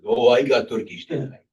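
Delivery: lightly imitated Turkish accent; mock Turkish-accented sales pitch; Turkish vendor. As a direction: play an eager market seller with a hint of Turkish accent. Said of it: "I asked the guy".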